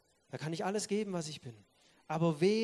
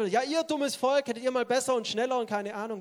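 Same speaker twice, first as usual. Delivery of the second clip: mock angry outburst; 6 semitones higher, 5 dB louder than usual. Moses losing it at the people, mock angry scolding. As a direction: lash out at the foolish people in mock anger.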